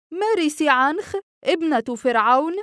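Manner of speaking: high, loud disbelieving shout; astonished cry. A narrator's reading. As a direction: cry out the name in amazement. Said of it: "فصاح الجميع". (صيحة دهشة عالية)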